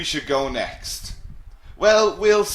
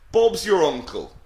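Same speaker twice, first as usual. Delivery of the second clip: attempted English accent, pitched higher; 4 semitones higher, 4 dB louder than usual. Shown as a demonstration. Teacher trying the phrase for students, amateur English accent. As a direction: have a go at a bad English accent. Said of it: "I'll try my English accent again".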